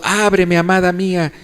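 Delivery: mild pleading call. Acted. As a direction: call to a beloved through the door. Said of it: "dando voces, tocando la puerta, diciendo".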